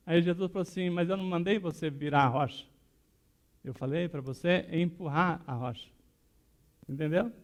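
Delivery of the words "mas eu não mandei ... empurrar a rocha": measured, patient answer after an outburst; calm correction. Retold or imitated. Jesus correcting the upset woman, calm and patient. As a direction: correct gently without raising your voice.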